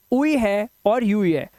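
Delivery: उई, यूई slowly, as "oo-ee", "you-ee"; separate vowel sounds. Shown as a demonstration. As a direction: list उई and यूई one by one. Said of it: "चार उच्चारण है".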